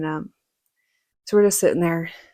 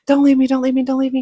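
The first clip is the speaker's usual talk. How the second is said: higher, urgent mock pleading; retold freaking out; 6 semitones higher, 7 dB louder, faster than usual. Injured niece begs her uncle to stay, acted-out panic. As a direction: plead in a rush, imitating panic. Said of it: "freaking out".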